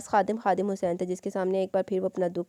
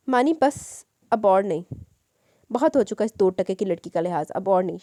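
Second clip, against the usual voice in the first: raised, angry voice, hitting the word और; a furious man refusing to take any more; angry outburst. Acted. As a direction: snap in rage that enough is enough. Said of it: "गुस्से से फट पड़ा".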